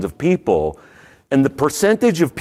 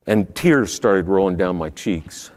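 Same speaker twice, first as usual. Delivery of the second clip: choked up; 5 semitones lower than usual. Real, not acted. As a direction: hold back real tears. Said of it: "I'm getting a little choked up now".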